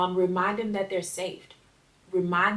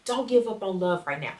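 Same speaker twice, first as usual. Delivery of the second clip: gentle reassurance. Shown as a demonstration. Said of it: "That's what I would have said to my teenage child".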